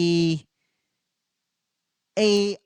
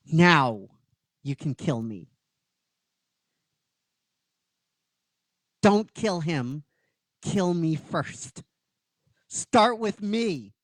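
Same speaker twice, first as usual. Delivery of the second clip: slow, measured plea; pleading defiance; slower than usual. Acted. Injured Ranger begs Goldar to spare her friend, slow and firm. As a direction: offer yourself in his place, word by word. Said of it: "And she goes".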